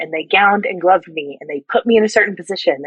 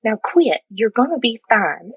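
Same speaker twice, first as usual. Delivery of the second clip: put-on soothing Southern accent; Paula; 3 semitones higher than usual. Southern circulator calms crying helper after wiping nose, soothing Southern accent. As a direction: hush someone gently in a Southern accent. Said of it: "she was super Southern".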